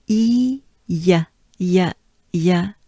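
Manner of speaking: "E" then "y" with a smile; banana smile on "E"; French E and y. Shown as a demonstration. Teacher shaping the E sound. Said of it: "It will go like this".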